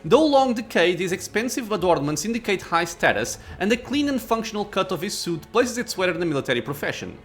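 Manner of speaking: measured reading of the scene; story narration. A narrator's reading.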